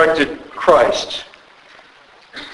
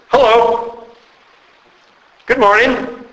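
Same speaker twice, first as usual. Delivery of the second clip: welcoming greeting; 6 semitones higher than usual. Pretend. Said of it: "do you hear how welcoming and friendly".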